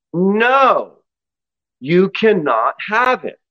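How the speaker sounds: firm, slow refusal; calm but firm. Acted. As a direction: hold the line without anger. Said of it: "in a calm but firm voice".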